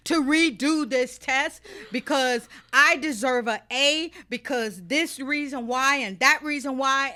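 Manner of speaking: replaying her own heated protest with a laugh; pleading student. Student pleading with teacher to retake final, laughing and loud. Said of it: "and I was like".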